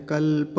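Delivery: कल्प with the प said in full; full pa sound. Shown as a demonstration. Teacher sounding the full प of कल्प. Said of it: "प, पकार पूरा है".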